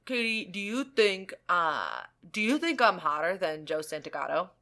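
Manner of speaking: hint of a boyfriend asking hesitantly; lightly imitated boyfriend. Girlfriend quoting boyfriend's question about his looks, lightly imitated.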